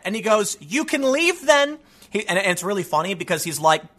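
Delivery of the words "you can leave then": dismissive comeback. Retold or imitated. Comedian's curt retort quoted.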